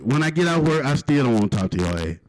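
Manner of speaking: ordinary talk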